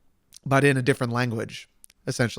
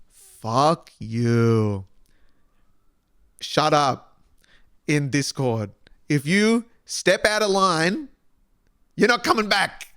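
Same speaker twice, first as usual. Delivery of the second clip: mock stern moderator; much slower than usual. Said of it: "You know what I say to that?".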